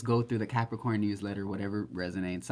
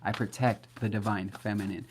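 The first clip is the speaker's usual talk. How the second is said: casual affirmations. Shown as a demonstration. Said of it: "you gotta say these things casually".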